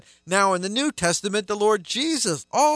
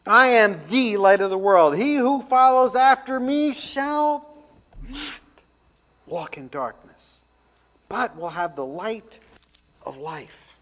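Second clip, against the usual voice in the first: raised voice; 5 semitones higher than usual. Shown as a demonstration. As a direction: proclaim it big, then fall away. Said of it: "he's raising his voice when he says this".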